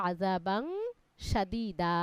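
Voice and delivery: "সাদীদা" with its last "দা" drawn out, no n at the end; one-alif lengthening. Shown as a demonstration. Teacher showing the madd rule to a student, final "দা" of "সাদীদা" stretched. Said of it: "এক আলিফ টেনে পড়তে হবে".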